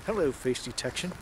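mock formal greeting. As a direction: greet "face detection" low, with a rise on "Hello". Addressing the camera's face detection.

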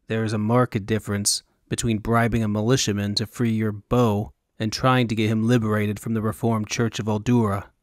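lightly voiced wary mercenary; a hint of a suspicious hired man; Roland's voice. Roland questioning the woman, lightly voiced and wary.

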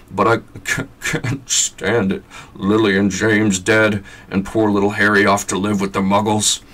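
Hagrid grieving the Potters; tearful. Acted. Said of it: "sobbed Hagrid".

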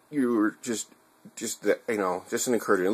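stumbling over words; stuck on words, stuttering. Real, not acted. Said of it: "I stuttered there".

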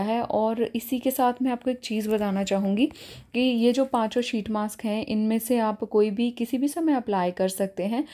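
talking through thin face mask; speaking with sheet mask on. Real, not acted. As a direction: mask pressed on lips. Seen 0: Wet sheet mask covers her face; the mouth opening is visible while she speaks.

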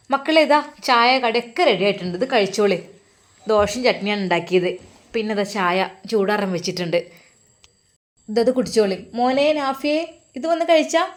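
put-on a mother calling the kids to breakfast; mother's voice.

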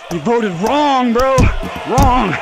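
slow jeering You voted wrong, then a yelled Wrong; taunting yell. Real, not acted. Gamer taunting the player he knocked out, jeering yell. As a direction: jeer at the loser, building to a shout.

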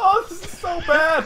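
slow, wailing through laughter; laughing despair. Real, not acted. Player watching the round fall apart, laughing wail. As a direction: groan it out while cracking up.

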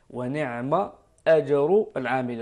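أجر with its hamza clearly kept; ونعم أجر, hamza kept; correct reading. Shown as a demonstration. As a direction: sound the hamza of أجر, don't carry it over. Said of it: "ما نقولوش نعم أجر".

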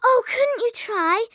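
a near-tearful plea; pleading cry. Acted. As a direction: beg her with a catch of tears. Pleading with her teacher.

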